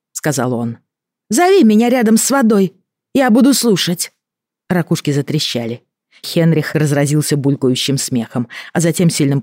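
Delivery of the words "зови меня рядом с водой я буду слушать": high, loud creature call. Acted. Creature calls out loudly.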